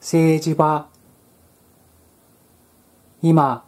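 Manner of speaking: flat text-to-speech reading; robot voice. Retold or imitated. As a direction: read it like an AI voice. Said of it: "棒読みのような".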